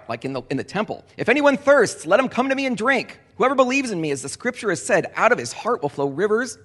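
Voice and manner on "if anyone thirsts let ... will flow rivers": high, loud proclaiming call; crying out. Acted. Jesus calling to the crowd in the temple, loud high cry. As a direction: cry it out across the temple, pitched well up. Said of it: "He cried out".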